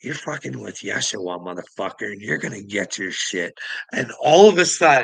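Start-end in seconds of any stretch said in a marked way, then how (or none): 0.0-3.6 mock angry outburst, snapping in rage. Retelling the moment of losing control: retelling an angry outburst. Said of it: "I fucking snapped".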